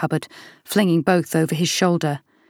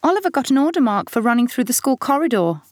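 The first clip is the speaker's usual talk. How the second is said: put-on teenage girl voice; 8 semitones higher than usual. A narrator's reading. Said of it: "Mia says".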